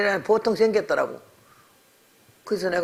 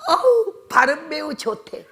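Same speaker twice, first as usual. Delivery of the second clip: impressed gasp; 9 semitones higher, slower than usual. Retold or imitated. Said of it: "그랬더니".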